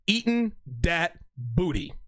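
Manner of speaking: slow, drawn-out joke reveal; drawn-out punchline. Pretend. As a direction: savour the punchline slowly in a put-on voice.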